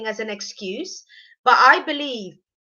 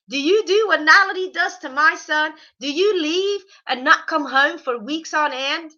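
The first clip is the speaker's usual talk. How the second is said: higher, louder mock Southern US accent; rednecky Southern accent; 4 semitones higher, 4 dB louder than usual. Mother-in-law taking on the girlfriend, mock rednecky Southern accent. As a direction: challenge with a hint of redneck Southern. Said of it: "That's more rednecky".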